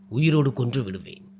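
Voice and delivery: a chilling threat, no smile left; cold, intense threat. Acted. Man coldly threatening the woman who might refuse him. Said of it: "மிக தீவிரமான குரலில் கூறினான்".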